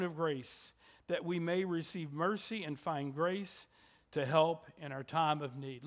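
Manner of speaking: measured, solemn Bible reading from the pulpit; scripture reading. Acted. Reads scripture aloud.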